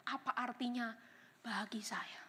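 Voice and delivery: whispered self-reflection; hushed question. Retold or imitated. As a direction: drop to a near whisper on the question. Voicing a personal reflective question.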